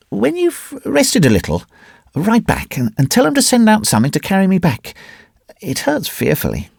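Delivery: high-pitched woman's voice, in pain; injured young lady. Acted. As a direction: plead for help in a high voice.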